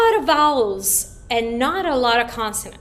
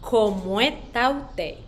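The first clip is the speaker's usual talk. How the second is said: very slow; 4 dB quieter than usual. Shown as a demonstration. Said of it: "I'm gonna say it very slow".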